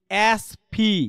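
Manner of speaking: "asphi" with the I read as a letter; common mispronunciation "asphi". Shown as a demonstration. Teacher showing what people usually say, "asphi" with an ee. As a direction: say "as-phi" as people usually misread it. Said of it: "সাধারণত মানুষ কি বলবে জানেন".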